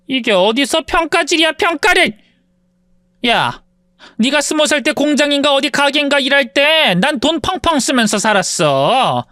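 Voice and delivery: lightly voiced sneering rich woman; haughty rich woman. Rich woman taunts her former maid, mildly sneering. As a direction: look down on her with a lazy sneer. Mean former mistress raging.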